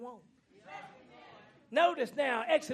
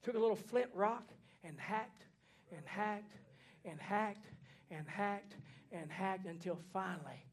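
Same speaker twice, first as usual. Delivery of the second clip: each hacked driven home, fading softer; repeated hacked; 4 semitones lower, 5 dB quieter than usual. Acted. Preacher describing the lamb's slaughter, repeated hacked fading. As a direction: hammer the word hacked again and again. Slaying the lamb.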